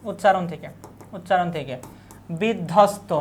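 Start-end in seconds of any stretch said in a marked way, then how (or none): 2.4-3.1 বিধ্বস্ত as "biddhosto", the b left silent; silent ব-ফলা. Shown as a demonstration. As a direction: say বিধ্বস্ত with no b sound in ধ্ব. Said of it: "ব ফোলার উচ্চারণ আমরা পাচ্ছি না".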